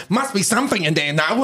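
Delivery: imitated British accent. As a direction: quote the singer in a put-on British accent. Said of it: "at the end she's just like".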